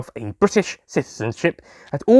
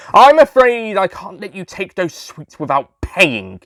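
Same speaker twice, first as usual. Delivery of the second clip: annoyed; 4 semitones higher, 4 dB louder than usual. Acted. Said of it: "I said, annoyed".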